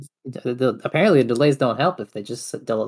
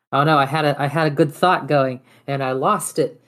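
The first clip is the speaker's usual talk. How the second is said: dismayed; 2 semitones higher, 5 dB louder than usual. Real, not acted. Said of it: "oh no, I lost my train of thought".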